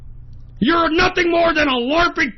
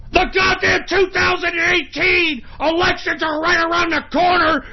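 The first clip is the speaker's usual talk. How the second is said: angry high rant; 6 semitones higher than usual. Real, not acted. Furious rant about elections.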